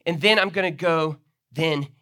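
playing a disciple. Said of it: "the picture, literally is something like this".

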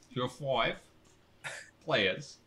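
light put-on Cockney; Cockney accent. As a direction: explain it like a Londoner. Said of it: "your first time doing a Cockney accent".

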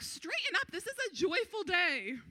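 high, loud mock-stern priest; priests chiding. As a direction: pull the weepy crowd together, half scold, half cheer. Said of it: "the priests are like".

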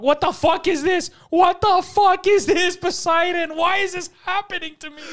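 high, shouted, whining imitation of panic; mock panicked outburst. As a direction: escalate from disbelief into a hammed-up wail. Mimicking friend's panic under attack.

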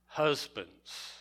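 Husbands alone, drawn out with a falling tone; single out the word Husbands; stress on Husbands. Shown as a demonstration. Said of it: "we emphasize each word in the verse".

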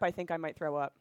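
queasy and low; sick from last night's drinking; hungover. Real, not acted. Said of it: "We're really hungover".

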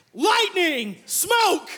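high, loud mock incantation; hammed-up wizard calling down lightning.

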